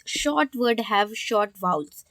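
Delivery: each word of the rule read out slowly and evenly. Acted. Teacher reading the rule slowly to students. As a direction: spell out the rule for the class.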